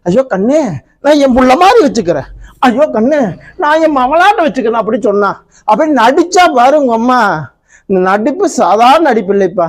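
a wronged wife pouring out her grievances, rising to a shout; angry young wife. Acted. Wife complains to husband.

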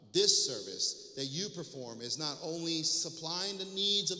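reading the epistle aloud with firm projection; preacher reads scripture to the congregation, emphatic and measured. Acted. Preacher reading Paul's letter to his church, emphatic public reading.

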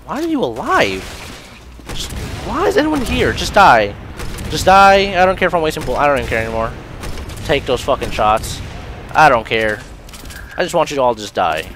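loud ranting, high at first; playing angry. Real, not acted. Gamer wanting every enemy dead, angry loud rant. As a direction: rage at them, starting high and settling into forceful anger. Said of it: "I'm playing angry".

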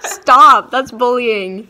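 loud laughing mock protest. Real, not acted. Teased by friends.

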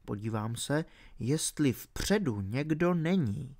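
very soft, hushed voice; whispering. A narrator's reading. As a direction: whisper it secretively, very quietly. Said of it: "zašeptal archeolog". (tichý šepot)

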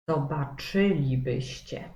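zobaczylibyście stressed on CZY; zobaczylibyście with CZY hit; zobaczylibyście, stressed zo-ba-CZY-li-by-ście; stress on fourth from end. Shown as a demonstration. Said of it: "jak je zaakcentujemy".

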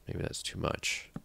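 barely voiced second thoughts; whispered doubt. Real, not acted. Looking at too many torches, a doubtful whisper. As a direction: whisper it, slow and unsure.

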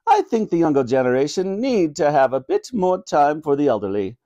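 lightly voiced regal monarch; a hint of royal pronouncement; opining Queen. Queen agreeing with Granny about the young, mildly regal.

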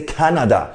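Canada with the middle "na" too strong; mispronounced Canada. Shown as a demonstration. Teacher telling students what not to say, mispronounced Canada. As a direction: give Canada a heavy, full "na". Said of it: "这个那不要那么大声".

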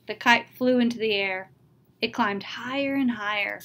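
lively storybook read-aloud; reading to children. Acted. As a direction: read the tale to the class with expression. Reads a picture book aloud.

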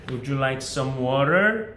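very slow, each word drawn out, rising on "water"; teacher spells out "would you like some water" slowly for students to copy; slow model sentence. Shown as a demonstration. Teacher modeling a waiter's question for students, very slow and rising. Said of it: "이렇게 하면 끝이에요".

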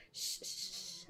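soft unvoiced shushing; hushing. Angel hushing the human who tries to speak, whispered shush. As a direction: hush them gently, breath only.

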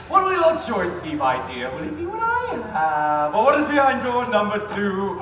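a lightly sinister showman teasing the choice; creepy game host. Acted. Spooky game show host offering a contestant her choice. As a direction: purr the options like a devilish host.

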